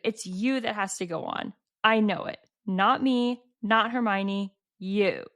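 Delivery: mildly dramatic read-out speech; lightly acted, solemn insistence in separate phrases. Reading Ron urging Harry to go on, mildly dramatic. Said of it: "they're so dramatic".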